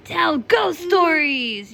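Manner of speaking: eager yell. Acted. Mother reading, Jack yells to tell ghost stories. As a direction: shout out the idea eagerly. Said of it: "yelled Jack".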